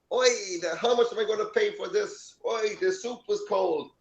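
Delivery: hammed-up complaint about the bill and the cold soup; mock Jewish complainer. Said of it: "he's like fucking cracking jokes".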